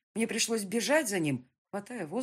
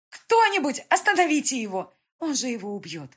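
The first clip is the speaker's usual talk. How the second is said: a woman's high shrieking plea, much louder; hysterical scream; 8 semitones higher, 10 dB louder than usual. A narrator's reading. Woman screams at the crowd to stop the beating, hysterical. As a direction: scream for help in panic. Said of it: "истерично закричала женщина".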